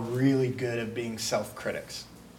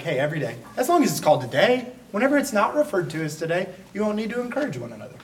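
higher, mock-innocent sing-song, then rushed; sarcastic paraphrase; 5 semitones higher, faster than usual. Preacher voicing the author's sarcasm to the church, snarky. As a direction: play it snarky, like an eye-rolling aside. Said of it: "sarcasm or snarkiness".

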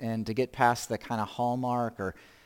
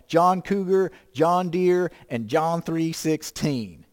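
country twang; 3 semitones higher, 4 dB louder, slower than usual. Retold or imitated. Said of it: "You have to say it with that kind of slang".

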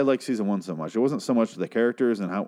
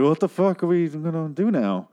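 mock panicked quote; 7 semitones higher than usual. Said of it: "I was like".

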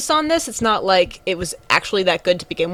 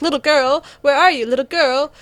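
put-on calling for the girl; 5 semitones higher than usual. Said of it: "She's like".

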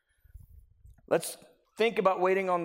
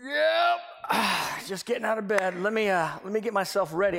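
groggy friend; faster than usual. Retold or imitated. Voicing a lazy friend.

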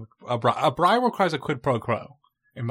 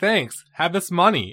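put-on kid voice, pitched up; 6 semitones higher, 7 dB louder, slower than usual. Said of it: "And he's like".

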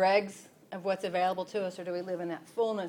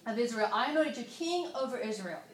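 a lightly voiced gracious God, higher; voicing God, gracious; 5 semitones higher than usual. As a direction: give God's words with gentle mercy. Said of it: "listen to God's grace and mercy".

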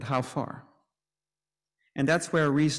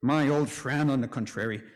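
plain; 4 semitones higher than usual. Retold or imitated. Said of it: "Luther might counter".

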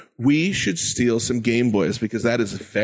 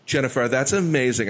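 ordinary talk, nothing marked

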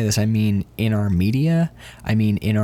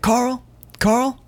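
much higher, excited praise shouted to the cook; 8 semitones higher than usual. Retold or imitated. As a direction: gush over the burger like a thrilled fan.

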